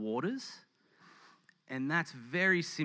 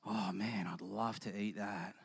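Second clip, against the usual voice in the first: lower, softer, a hint of a sighing pious faster; mock pining faster; 7 semitones lower, 9 dB quieter than usual. Preacher voicing a showy faster at a meal, lightly mock-pining. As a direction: moan it out, angling to be noticed. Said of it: "just going".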